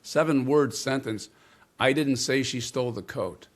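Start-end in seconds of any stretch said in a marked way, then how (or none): 1.8-3.5 "I" pushed up and weighted at the start; stress on I. Shown as a demonstration. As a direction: lean on "I", the rest falls away. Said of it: "change the emphasis on a single word".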